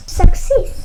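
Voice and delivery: loud laughing cheer. Acted. Narrator cheering Sam's success. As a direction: celebrate with a laugh. Sam passes test.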